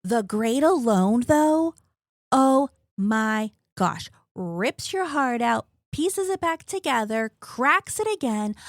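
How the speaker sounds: slow, loud, emphatic gushing; gushing excitement. Real, not acted. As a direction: rave about the book with heart. Raving about favorite book.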